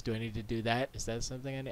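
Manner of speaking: ordinary delivery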